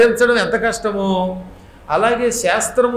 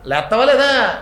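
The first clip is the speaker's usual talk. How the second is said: rough command; 4 semitones higher than usual. Retold or imitated. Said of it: "అటువంటి వాడు".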